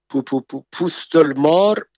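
stammering on the first sound, then a frightened rising question; stammering in fear. Acted. Mashallah Khan stammers in fright at the snake-skin medicine, stuttering. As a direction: stutter out the words, terrified. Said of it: "با لکنت پرسید".

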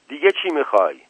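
a restrained shouted demand; shouting. A narrator's reading. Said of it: "زکریا داد زد". (داد ملایم و پرسشی)

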